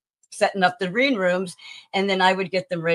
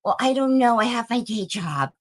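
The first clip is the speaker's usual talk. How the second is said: lightly voiced clueless younger self; idiot younger me; 6 semitones higher than usual. Mocking her younger self who hesitated, lightly voiced as clueless. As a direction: play your younger self a bit dim and unsure. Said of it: "And the idiot me says".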